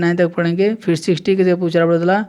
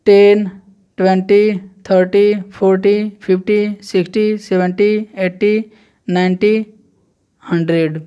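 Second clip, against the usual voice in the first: counting drill. Shown as a demonstration. Teacher counting by tens to hundred for students, clear drill. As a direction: recite each clearly for the class. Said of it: "तो देखिए".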